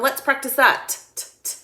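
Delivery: encouraging teacher. Retold or imitated. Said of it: "And I'll say to them".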